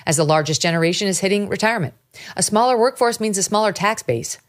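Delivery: polished host-read sponsor spot; measured, emphatic promo read. Acted. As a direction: read the ad copy with punchy emphasis on key words. Reads subscribe plug and gold ad.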